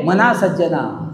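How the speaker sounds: मना सज्जना recited slow, each syllable measured; slow scanned recitation of मना सज्जना; metered recitation. Shown as a demonstration. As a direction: chant मना सज्जना beat by beat. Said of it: "ह्रस्व, दीर्घ, दीर्घ".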